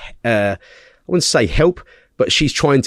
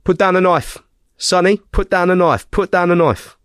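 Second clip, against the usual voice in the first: raised, commanding call, pitched higher; retold police shout; 6 semitones higher than usual. On the phone to police, a raised mock shout. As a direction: bark the order higher and firmer. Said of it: "he's fucking saying".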